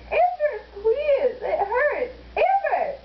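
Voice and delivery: slow pleading, half laughing; laughing plea. Real, not acted. Begging Amber to stop, laughing in pain. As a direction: beg through laughter and pain.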